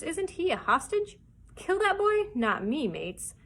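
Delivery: loud, animated pirate harangue; shouting. A narrator's reading. Captain defending his bargain to the crew, shouting. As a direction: argue forcefully, jumping high on the challenges. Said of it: "Silver was shouting by now".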